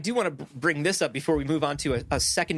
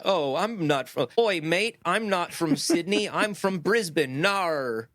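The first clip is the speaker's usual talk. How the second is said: a hint of a Brisbane bird's Australian drawl; slow, playful Aussie voice, oi mate; mock Australian accent; slower than usual. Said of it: "that is a perfect Brisbane accent".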